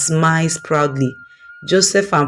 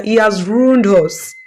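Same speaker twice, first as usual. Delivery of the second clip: crying accusation; 5 semitones higher than usual. Acted. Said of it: "still crying".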